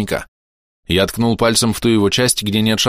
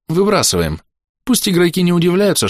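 higher, firm female voice; 10 semitones higher than usual. A narrator's reading. Kira interjects firmly.

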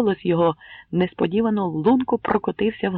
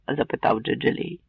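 plain reading voice

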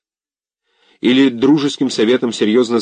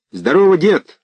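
put-on loud cheerful shout to the old man; 8 semitones higher, 5 dB louder than usual. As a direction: call out a hearty greeting. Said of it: "крикнул ему Филя".

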